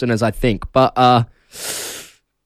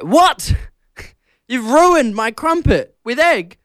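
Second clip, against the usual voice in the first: surprised; 8 semitones higher, slower than usual. Retold or imitated. Retold outrage at mum.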